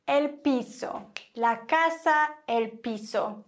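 piso and casa with an ordinary hissed S; normal S sound. Shown as a demonstration. Teacher recaps for learners, plain S in piso and casa. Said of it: "ganz normales S".

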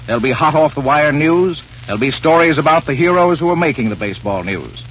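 usual speaking voice

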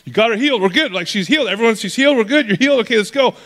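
a frantic father begging to hurry; desperate dad losing patience, building to a cry; frantic pleading. Retold or imitated. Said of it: "Jairus is just freaking out".

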